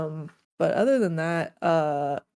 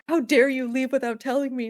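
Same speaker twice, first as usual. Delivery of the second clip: mock indignant villager; 7 semitones higher, 5 dB louder than usual. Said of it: "One of them was like".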